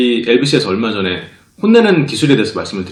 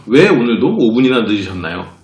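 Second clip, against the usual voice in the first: polite question; 3 semitones lower than usual. Shown as a demonstration. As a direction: ask it politely, gently. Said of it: "공손하게 물어봐도". (공손하게 "왜"를 부드럽게)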